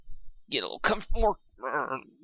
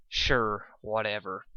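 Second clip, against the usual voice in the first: dismissive; 3 semitones lower, slower than usual. Acted. Dismissive sigh reply.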